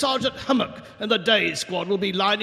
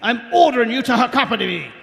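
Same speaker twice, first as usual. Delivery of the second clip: indignant outburst. Acted. Sergeant ordering Nobby along, blustering shout. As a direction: refuse to stand alone up there.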